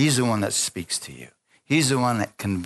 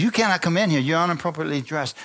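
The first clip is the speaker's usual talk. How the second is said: higher, mock stern reprimand; stern scolding; 5 semitones higher, faster than usual. Church woman turning away the tattooed girl, mock stern and higher. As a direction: scold her like a prim church lady.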